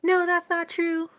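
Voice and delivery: lightly hammed protest; mock denial. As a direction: refuse to believe it. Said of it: "She's like".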